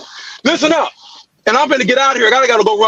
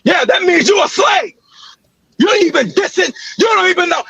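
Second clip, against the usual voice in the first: real yelling; 5 semitones higher than usual. Real, not acted. Man yelling an insult at a rival in the meeting. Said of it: "all that yelling you doing".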